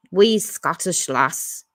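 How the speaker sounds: slow, hammed-up bad Scottish accent; a clumsy mock Scottish accent, drawn out. Host reading a chat comment in a deliberately bad Scottish accent. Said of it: "the worst Scottish accent ever".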